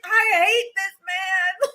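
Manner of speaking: mad. Retold or imitated. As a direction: drag it out in mock fury. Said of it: "I was so mad".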